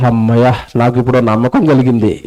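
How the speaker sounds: low, settled acted relief; relieved reassurance. Preacher voices the baby gaining trust, low relieved tone. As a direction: sigh it out low, as a soothed child.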